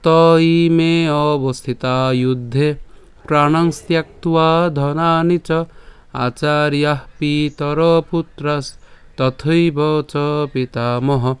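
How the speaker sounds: slow, clear chant of the shloka; slow verse recitation. Shown as a demonstration. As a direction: recite each syllable carefully for learners. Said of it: "আমি আবার বলছি". (ধীরে স্পষ্ট শ্লোক পাঠ)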